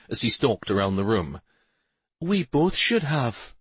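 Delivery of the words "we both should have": slow, higher, mild agreement; milder tone. A narrator's reading. Shari agreeing with Stavin, in a milder tone. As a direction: agree mildly, taking it slowly. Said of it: "agreed in a much milder tone".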